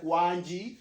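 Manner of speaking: chuckling as he quotes it; laughing quote. Retold or imitated. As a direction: laugh through the quoted words. Quoting teammates' goal praise.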